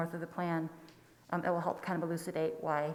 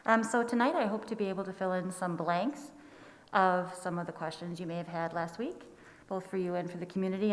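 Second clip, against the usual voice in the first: muffled. Real, not acted. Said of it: "I apologize if I'm a little muffled".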